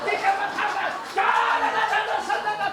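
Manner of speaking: high laughing cries of praise; ecstatic tongues. Shown as a demonstration. Pastor acting an ecstatic tongues speaker for the church. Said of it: "이렇게 울어서".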